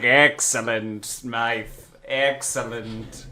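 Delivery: villain approval. Retold or imitated. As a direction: savor it like a scheming boss. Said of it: "he's like".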